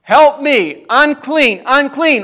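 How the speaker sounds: loud, high plea for help; a sinner crying out loud for mercy; desperate cry to God. Pretend. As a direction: cry out to the Lord at the altar. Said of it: "and we would say".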